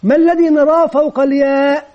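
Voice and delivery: a kindly teacher's coaxing question; teacher coaxing a pupil; gentle correction. Retold or imitated. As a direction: lead the child gently to the answer. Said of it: "نقول له".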